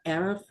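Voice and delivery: "Erev" with the R rolled in the back. Shown as a demonstration. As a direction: model "Erev", keeping the R back in the mouth. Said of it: "try to keep that rolled in the back".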